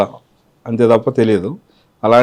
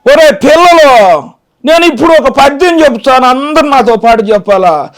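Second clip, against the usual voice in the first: put-on very high, loud old schoolmistress voice; Nirmalamma as teacher; 8 dB louder than usual. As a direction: scold the class like a fussy old teacher. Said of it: "teacher అన్నమాట, పిల్లలకి చెప్తుంది".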